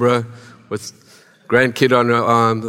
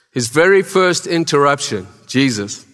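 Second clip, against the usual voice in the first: tongue sticking, words catching; dry mouth. Real, not acted. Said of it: "my tongue is sticking to the top of the lips".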